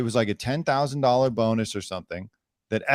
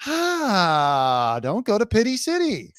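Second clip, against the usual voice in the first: mock CEO voice; 7 semitones higher, slower than usual. Parodying the CEO.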